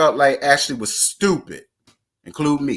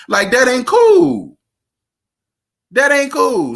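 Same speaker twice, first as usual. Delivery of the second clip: mock scolding; 9 semitones higher, 5 dB louder, slower than usual. Voicing Ray, scolding wife.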